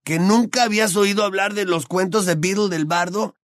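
can't believe she hasn't heard of it; incredulous. A narrator's reading. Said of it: "repuso Ron con incredulidad".

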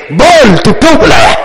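acted-out blunt demand; bold challenge. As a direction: call out a challenge, mimicking the bold visitor. Acts out bold challenge to king. (للکار کر پوچھنے کی نقل)

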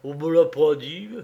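accused man growling at the judge; thick, helpless anger. Acted. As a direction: grumble it out, choked with rage he can't use. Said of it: "la voix empâtée de colère impuissante, grogna".

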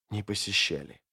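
не посещали breathed out faintly, stress on не; barely audible. A narrator's reading. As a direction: whisper не посещали, almost no voice. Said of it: "еле слышно ответил лорд".

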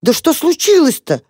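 high, pleading and close to tears; tearful mouse begging to know what's wrong; almost crying. A narrator's reading. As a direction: ask it as though about to cry yourself. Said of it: "уже сам чуть не плача".

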